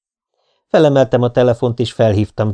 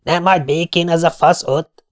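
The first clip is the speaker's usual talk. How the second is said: raised, higher bartender's voice; calling out loudly; 7 semitones higher than usual. A narrator's reading. Bartender checks if a customer is bothering her, calling out. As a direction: shout protectively from the back, not at full volume. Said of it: "kiáltotta valaki hangosan hátulról".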